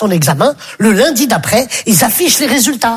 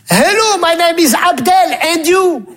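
higher, slower stilted schoolkid English; school English recital; 6 semitones higher, slower than usual. Retold or imitated. Second pupil parroting the dialogue back, laughing. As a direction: drag it out like a clueless pupil.

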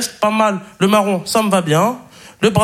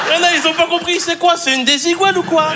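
lightly voiced puzzled audience member, higher pitch; mock clueless viewer; 7 semitones higher, faster than usual. To those who missed the joke, mock puzzlement.

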